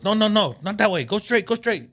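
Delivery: high-pitched mimic of a guard waving him on; mock attendant shout. Retelling the parking attendant redirecting him, high mock call.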